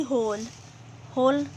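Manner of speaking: हॉल with a rounded vowel between आ and ओ. Shown as a demonstration. Teacher showing an English loan sound, हॉल between aa and o. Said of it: "आ और ओ के बीच की ध्वनि".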